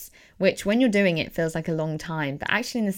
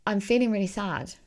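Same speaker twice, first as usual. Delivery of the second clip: gentle self-talk. Shown as a demonstration. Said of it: "and just say".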